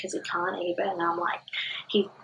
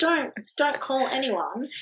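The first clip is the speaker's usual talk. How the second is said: high, slow, meek mock plea; good girl plea; 6 semitones higher, slower than usual. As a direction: plead politely, acting reluctant to bother anyone. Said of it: "my good girl brain".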